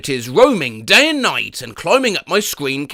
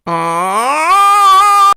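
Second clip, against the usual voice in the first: mock scream; 12 semitones higher, 4 dB louder than usual.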